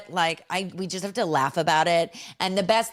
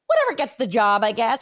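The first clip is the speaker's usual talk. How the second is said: pitched-up offhand blurt; blurted out loud; 4 semitones higher, 5 dB louder than usual. Retold or imitated. Mother answering the photographer's apology, blurted out loud. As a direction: toss it out aloud, a bit high. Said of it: "I said it out loud".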